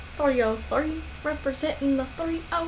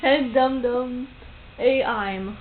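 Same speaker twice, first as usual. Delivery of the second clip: slow, words said in reverse order; backwards speech; much slower than usual. Shown as a demonstration. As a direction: spell the sentence out backwards. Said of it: "Tell me something to say backwards".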